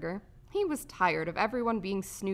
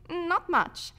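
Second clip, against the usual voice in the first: high-pitched little bug voice; small, high creature voice; timid roach; 10 semitones higher, 5 dB louder than usual. A narrator's reading. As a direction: pipe it up like a small insect. Roach Temp speaks.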